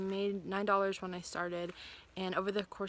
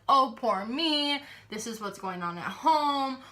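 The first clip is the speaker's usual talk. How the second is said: mock whiny voice; 4 semitones higher, 3 dB louder than usual. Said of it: "Whine, whine, whine".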